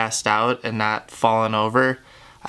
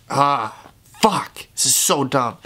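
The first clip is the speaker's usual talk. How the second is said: crying; 3 semitones higher than usual. Real, not acted. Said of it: "crying like a little bitch".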